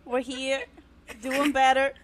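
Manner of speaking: half-hearted Southern twang; bad Southern accent. Host claims she is Southern now, badly faked Southern accent. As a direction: try for Southern and miss. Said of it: "It's, like, not even Southern".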